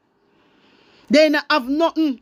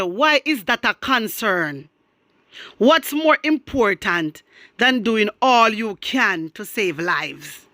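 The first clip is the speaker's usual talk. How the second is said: slow, measured read-out; reading a comment; 3 semitones lower, slower than usual. Retold or imitated. Quoting a commenter to the viewers, slow and deliberate. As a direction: read it out slowly, falling away at the end. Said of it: "And this person said".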